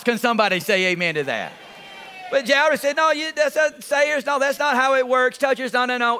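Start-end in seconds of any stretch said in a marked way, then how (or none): 3.0-6.2 protesting. Acted. Jairus disputing the other methods.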